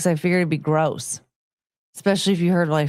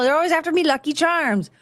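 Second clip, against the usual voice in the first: lightly voiced cereal mascot, pitched up; 7 semitones higher, faster than usual. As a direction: recite the slogan as a hint of the high-voiced mascot. Acting out cereal mascot's slogan.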